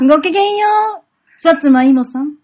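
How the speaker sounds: lofty lady's greeting; haughty rich girl japanese. Acted. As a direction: greet with noble airs. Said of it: "ほら、できる？". (お嬢様風の挨拶)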